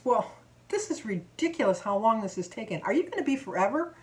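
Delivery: impatient complaint, rising on the question; rude customer. Retold or imitated. Customer behind complains how long it's taking, mildly rude. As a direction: imitate a customer fed up with waiting. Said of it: "but she was rude".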